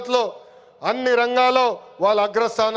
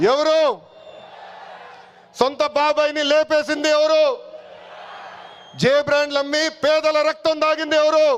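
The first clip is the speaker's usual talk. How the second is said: raised, higher accusing shout, each ఎవరు hammered; rally shout; 4 semitones higher than usual. Real, not acted. Leader accusing rivals before the rally crowd, shouting. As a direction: hurl each question at the crowd.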